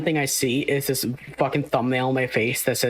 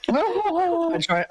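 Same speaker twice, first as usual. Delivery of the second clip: cracking up mid-line; 14 semitones higher than usual. Real, not acted. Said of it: "I'm laughing at my own joke over here".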